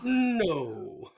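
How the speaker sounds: high, drawn-out impression; mock doctor giving a verdict; Hibbert. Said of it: "That was by Hibbert".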